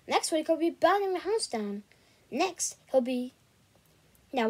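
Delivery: lightly voiced scolding mum; a hint of a fed-up mother; mum's voice. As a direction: mum ranting then chatting about supper, lightly voiced. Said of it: "his mum's voice talking out of the speaker".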